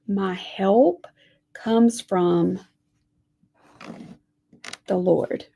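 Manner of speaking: whispered, building suspense; hushed. Acted. Teacher hushing before naming the Lord, whispered. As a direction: breathe the words before the reveal.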